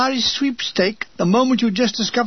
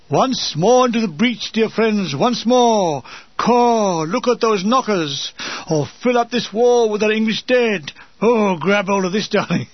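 army Shakespeare. Retold or imitated. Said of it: "it would have sounded more like this".

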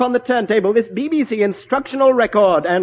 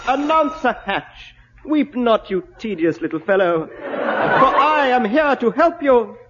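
fairy godmother voice. Acted.

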